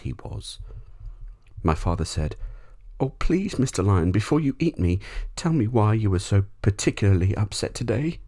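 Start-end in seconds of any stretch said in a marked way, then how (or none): 3.0-8.2 high, louder pleading voice; pleading boy. A narrator's reading. Boy pleads with the lion before being eaten. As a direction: beg sweetly to stall him.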